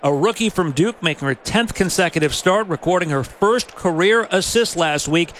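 punchy lineup announcement with swooping pitch; sports announcer. Real, not acted. Announcer reading the starting lineup to listeners, sports announcer delivery. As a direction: announce each player's name with emphasis.

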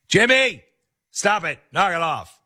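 high-pitched mock mom telling off a boy; scolding mom. Acts out mom scolding Jimmy.

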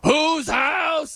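high, shouted chant call; mock Rams stadium shout. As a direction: hype the crowd like a PA man. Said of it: "It's not as bad as the Rams, like".

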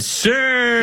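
high, lightly voiced wife saying sir; a high, dainty mock "Sir"; imitating Melania. Host mimicking Melania addressing her husband, pitched high. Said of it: "and she said".

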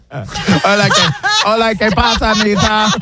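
mock Spanish accent. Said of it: "Patty would put on a sombrero".

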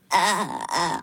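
short imitated vocal-fry croaks; creaky put-on groan; a pop singer. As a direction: creak it out as a mock pop star. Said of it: pop singer vocal fry.

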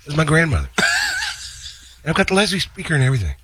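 John's voice. Retold or imitated. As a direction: gush about the organ. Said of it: "a story about something John said".

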